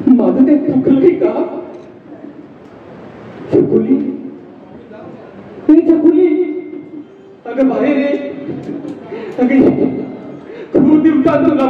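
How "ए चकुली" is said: higher, louder call toward the house. Acted. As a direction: call her to come out. Sick man calling his daughter. (उंच, मोठ्या आवाजात हाक)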